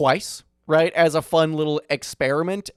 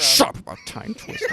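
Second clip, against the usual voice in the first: high, whiny mock protest; mock outrage; 11 semitones higher than usual. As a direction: squeal it like a fed-up friend. Joking outburst at friend.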